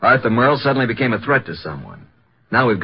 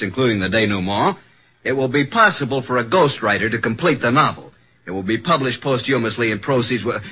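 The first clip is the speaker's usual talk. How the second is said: reading aloud; 3 semitones higher than usual. Acted. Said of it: "listen to this".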